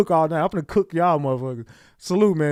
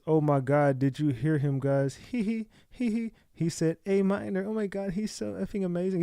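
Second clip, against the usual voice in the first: much softer, giddy fangirl voice with little giggles; mocking a rapper's fan; 7 dB quieter than usual. Mocking a rapper's fans gushing over the A minor line, soft and giddy. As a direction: gush like a starstruck fan. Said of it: "Those are Kendrick fans".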